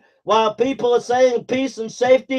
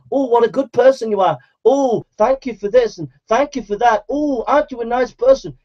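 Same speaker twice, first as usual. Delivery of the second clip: mock flattery. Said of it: "Preachers to do that?".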